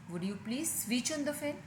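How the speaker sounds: said slowly word by word; slow drill. Shown as a demonstration. Teacher repeating the sentence slowly so students can practise. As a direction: spell it out slowly for listening practice. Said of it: "मैं दो तीन बार repeat करती हूँ".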